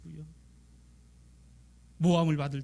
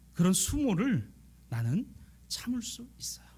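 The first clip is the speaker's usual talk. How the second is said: whispered resolve; 5 semitones higher than usual. Acted. Mother ready to endure insult.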